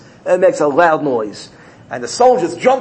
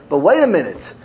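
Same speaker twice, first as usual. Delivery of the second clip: higher-pitched, earnest pleading; defense lawyer; 6 semitones higher than usual. Retold or imitated. Lawyer defending the boy before the king, pleading. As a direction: plead the boy's case, voice lifted. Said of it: "the defense lawyer says".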